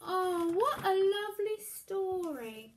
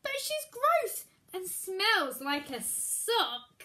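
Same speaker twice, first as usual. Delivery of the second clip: put-on disgusted child; 4 semitones higher, 4 dB louder, slower than usual. Hansel disgusted.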